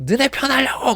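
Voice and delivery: high mock shout at a coworker; retold shouting. Coworker yelling over a requested fix, high shout. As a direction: yell it out as the angry coworker. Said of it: "소리를 막 지르면서".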